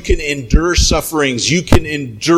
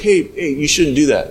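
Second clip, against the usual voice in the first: gentle first warning. Acted. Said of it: "At first you're like".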